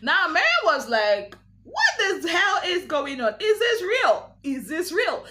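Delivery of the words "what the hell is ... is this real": imitating shocked outrage in a higher voice; mock shock, pitched well up; acted disbelief. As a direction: retell it as a high-pitched, incredulous demand. Acted shocked reaction to phone call.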